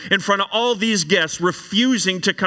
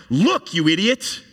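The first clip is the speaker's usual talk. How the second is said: disrespectful. Acted. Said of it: "is kind of like".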